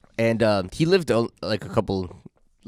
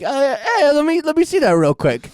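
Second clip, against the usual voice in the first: much higher, keen request; high eager self; 13 semitones higher, 3 dB louder than usual. Retold or imitated. Teen narrator asking Nick for the guitar, high eager voice. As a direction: sound itching to grab the guitar. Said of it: "I'm like".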